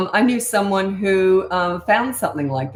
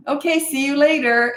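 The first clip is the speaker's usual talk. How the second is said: higher and brighter, a breezy farewell; quick cheerful goodbye; 8 semitones higher, 4 dB louder than usual. Shown as a demonstration. Parent leaving the child at drop-off, breezy and cheerful. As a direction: leave lightly, no drama. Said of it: "short and sweet".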